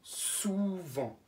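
Souvent drawn out for writing; slow dictation word. Shown as a demonstration. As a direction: dictate Souvent gently and slowly. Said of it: "Je vous laisse un petit peu de temps pour l'écrire".

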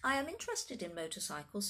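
put-on formal child, matter-of-fact; precocious little boy. Voices precocious George.

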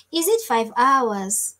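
slow put-on Swahili accent; stretched-out words in a playful Swahili accent. Shown as a demonstration. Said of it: "let me say this in this, in the Swahili accent".

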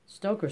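firm correction with the word stressed; correcting. A narrator's reading. Stoker correcting Miss Tox, firm stress on his trade. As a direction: set her right on the word Stoker. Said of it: "said the man".

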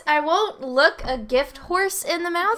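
loud, rising, incredulous repeat; can't believe what was just said; high, slowed disbelief; baffled disbelief. Real, not acted. Player baffled by the game line.

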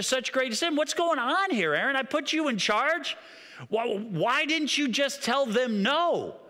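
angry rebuke. Acted. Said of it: "So he said to Aaron".

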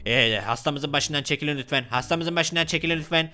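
a hint of a low-voiced doctor; doctor, requesting. Doctor asking visitors to leave the patient, polite request.

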